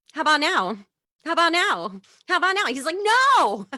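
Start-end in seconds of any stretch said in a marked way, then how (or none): 0.1-2.7 high, loud, eager questions; hammed-up relentless nagging; insistent pestering. Pestering him repeatedly with hot dog. 3.0-3.7 high, loud, drawn-out yell; imitated outburst of refusal; exasperated refusal. His retold refusal after being pestered.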